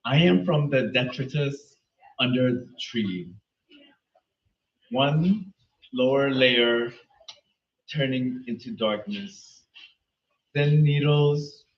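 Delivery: slow poetry reading with spaced phrases; poem recitation. Acted. Reader starting a late friend's poem, slow measured recitation. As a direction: recite it slowly, pausing after each line.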